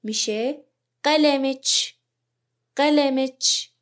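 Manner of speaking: قلمچ said slowly, ending in "ch"; Arabic demo. Shown as a demonstration. Teacher modelling قلمچ as "qalamech" for students, careful.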